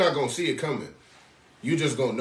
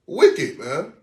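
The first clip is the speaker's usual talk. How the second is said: loud condemning cry; 5 dB louder than usual. Real, not acted. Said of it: "preacher condemning the tradition".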